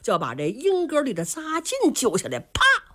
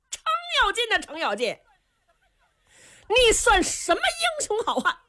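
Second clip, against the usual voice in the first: laughing mockery; 10 semitones higher than usual. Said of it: "尤俊达是仰天狂笑".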